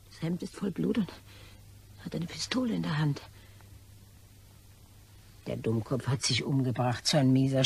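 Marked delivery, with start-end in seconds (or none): 0.1-3.2 hushed whisper. Acted. Whispering over the corpse.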